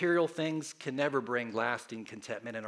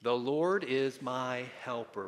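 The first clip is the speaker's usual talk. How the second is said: congregation response; slower than usual. Shown as a demonstration. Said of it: "Say it with me".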